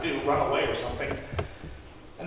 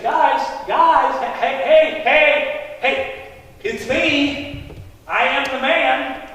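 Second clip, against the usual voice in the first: insistent repeated calls, raised a little; calling for attention; 4 semitones higher, 4 dB louder, much slower than usual. Acted. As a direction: try to break into their argument. Calls for arguing neighbors' attention.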